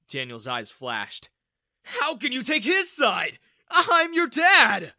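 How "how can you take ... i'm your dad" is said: loud, much higher, slow indignant cry; wounded pride, shout it; hurt angry shout. Acted. Father shouting at his daughter, indignant.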